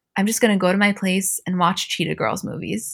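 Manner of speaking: normal talking voice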